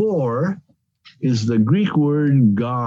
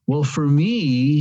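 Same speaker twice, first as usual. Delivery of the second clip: drawn-out stress on "me"; slow down and lean on "me"; emphatic ME; 2 semitones higher, slower than usual. Acted. Preacher voicing Paul's answer about his life's passion, emphatic "me". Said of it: "so he's emphatically now drawing attention".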